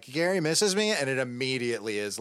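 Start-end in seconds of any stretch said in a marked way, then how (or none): 0.0-0.9 high mock nervous quote; quoting nervous excuse. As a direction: replay the lame excuse, high. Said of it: "it's like".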